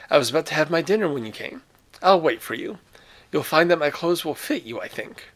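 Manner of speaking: brisk, pleasant instructions; lightly voiced brisk general; general, brisk host. General Zaroff sends guest off.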